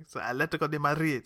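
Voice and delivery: "Madrid" with a rolled Spanish R; mock pretentious "Atletico de Madrid". Shown as a demonstration. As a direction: roll the R in "Madrid" snobbishly. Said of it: "rolled R's".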